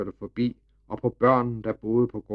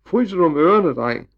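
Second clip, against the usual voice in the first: mocking taunt; 6 semitones higher, 6 dB louder than usual. A narrator's reading. Nasty man taunts Emil.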